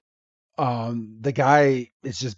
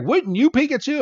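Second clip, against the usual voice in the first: mock Ash; 12 semitones higher, faster than usual. Ash voiced in episode recap.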